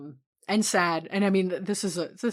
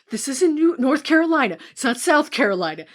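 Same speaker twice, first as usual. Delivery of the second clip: higher, louder hammed-up Southern lawyer accent; mock Southern courtroom tirade, higher and louder; Bruce McGill's Southern lawyer; 7 semitones higher, 7 dB louder than usual. Imitating the movie lawyer's rant, higher, louder Southern accent. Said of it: "the way that he's like".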